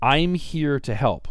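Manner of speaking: slow, sugary sales reassurance; mock broker line. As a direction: fake helpful salesman tone. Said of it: "Brokers are always saying".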